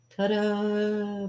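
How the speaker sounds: high, drawn-out little flourish; magician's reveal. Pretend. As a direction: present the trick with a sing-out flourish. Performs trick reveal.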